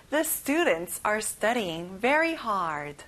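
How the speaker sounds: slow, even words, "very" stressed; very slow repeat. Shown as a demonstration. Teacher repeats the sentence slowly for the class. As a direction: say it again slowly for echo. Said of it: "같이 따라해볼까요".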